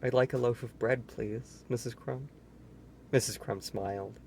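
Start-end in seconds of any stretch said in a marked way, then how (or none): 0.0-2.3 quietly. Acted. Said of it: "he said quietly".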